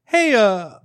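high, loud, drawn-in come-on; cheesy pickup line. Retold or imitated. Teen tries worst pickup line on a passing girl, cheesy. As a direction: push out a clumsy, eager pickup line. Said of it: "the worst pickup line ever".

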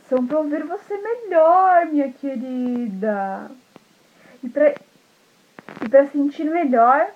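high then slow, sly cooing; sly disguised wolf. Acted. Wolf as grandma answering about the ears, slow and sly. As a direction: coo the answer to trick her. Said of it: "o lobo falou assim".

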